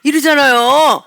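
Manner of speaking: normal talking voice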